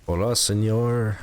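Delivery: slow, hesitant go at a Spanish accent; attempted Spanish accent. Shown as a demonstration. Streamer reluctantly doing a Spanish accent on request, attempted Spanish accent. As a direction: try on a Spanish accent, drawing it out. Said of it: "Do a Spanish accent then?".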